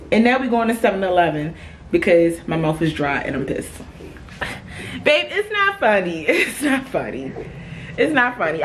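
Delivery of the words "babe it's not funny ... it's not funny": higher-pitched, indignant plea to a partner; indignant protest. Real, not acted. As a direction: tell your babe off for laughing. Protests at laughing boyfriend.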